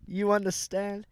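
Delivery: slow, lightly drawled Southern echo of a friend; mock Southern accent. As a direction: tease him by parroting his Southern twang, slowly. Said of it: "you and Nate talk from the fucking South".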